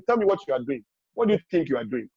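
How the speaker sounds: put-on calm parent asking what the child is doing. Shown as a demonstration. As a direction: ask gently, inviting an answer. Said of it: "And say it calmly".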